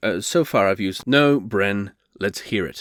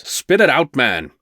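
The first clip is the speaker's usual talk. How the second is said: impatient urging; 5 dB louder than usual. Acted. Host pressing a hesitant guest to confess, impatient. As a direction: demand that he get on with it.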